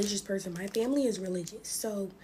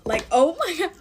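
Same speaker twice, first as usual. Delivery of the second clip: loud laughing "oh my God"; 7 semitones higher, 5 dB louder than usual. Real, not acted. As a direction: burst out laughing as you say it. Laughing at remembered fright.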